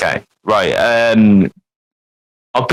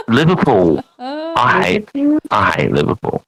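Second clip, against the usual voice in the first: mock Scouse; 3 semitones lower than usual. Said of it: "Doing an impression of a band".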